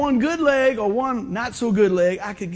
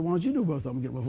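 mocking echo; 4 semitones lower, much faster than usual. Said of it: "I said".

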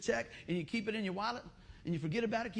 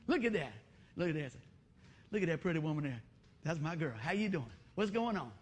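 lower, smooth admiring talk; acted suave appreciation; playful flirting; 5 semitones lower than usual. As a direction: sweet-talk your wife after a whoop. Acts flirting with his wife.

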